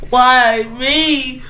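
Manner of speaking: a mock sob on the words; hammed-up tearful lament; crying why me. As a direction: whimper it out self-pityingly. Self-pitying writer laments.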